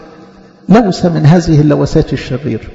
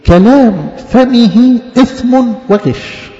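slow verse reading; 6 semitones higher, much slower than usual. Real, not acted. Reads verse slowly.

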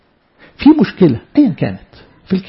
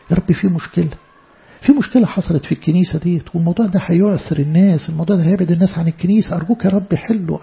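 earnest prayer to God, voice rising in worry; fervent sermon-style pleading prayer; 2 semitones higher than usual. Acted. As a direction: pray it aloud as a frightened servant. Acts out a worried prayer.

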